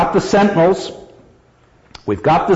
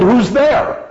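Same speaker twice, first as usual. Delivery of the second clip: mock yell; 10 semitones higher than usual. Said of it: "who yelled".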